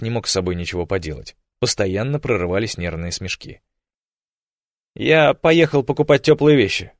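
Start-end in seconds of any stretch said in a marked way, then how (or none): 4.9-6.9 placating, agreeable tone on «поехал»; smooth it over gently; conciliatory. A narrator's reading. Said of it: "примирительно продолжил он".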